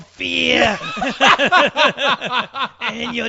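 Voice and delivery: slow laughing monster growl; creepy monster voice. Pretend. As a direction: drag the words like a lurking monster.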